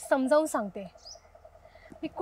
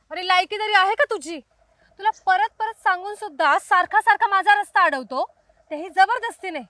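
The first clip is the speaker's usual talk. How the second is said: angry; 3 semitones higher than usual. Acted. Girl scolding the stalker.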